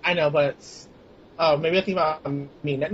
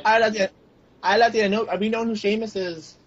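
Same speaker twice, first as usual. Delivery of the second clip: put-on Irish accent; 4 semitones higher than usual. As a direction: try a light Irish lilt. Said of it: "an Irish accent?".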